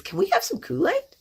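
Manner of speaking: put-on very high little-girl voice; little sister. Little Gail asks mom for Kool-Aid, very high child voice. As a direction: pipe up like a small child asking innocently. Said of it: "my little sister Gail".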